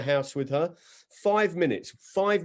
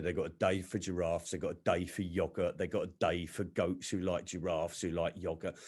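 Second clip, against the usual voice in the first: mum moaning; 6 semitones lower, 9 dB quieter than usual. Retold or imitated. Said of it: "she was moaning".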